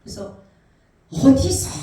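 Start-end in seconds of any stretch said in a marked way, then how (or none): 1.1-1.7 loud, high acted cry; re-enacted searching shout; desperate call. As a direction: call out urgently into the dark. Dreamer cries out to God again.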